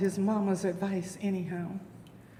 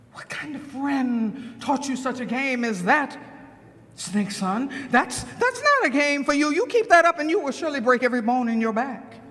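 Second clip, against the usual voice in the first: scolding mother snake; 2 semitones higher than usual. Acted.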